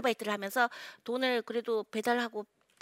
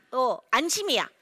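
normal talking voice

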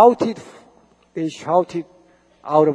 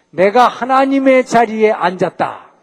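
louder, slow, higher boast on 하나님의; Satan's boast; 5 semitones higher, 7 dB louder than usual. Acted. Preacher voicing Satan's arrogant claim to the congregation, slow, loud boast. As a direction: boast "내가 하나님의 자리에 앉았다" slowly, louder and higher, stressing 하나님의.

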